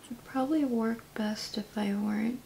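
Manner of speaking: lips stiff under clay; talking while brushing mask; face mask around lips. Real, not acted. Seen 0: Thick blue cosmetic mask covers the face around her lips throughout.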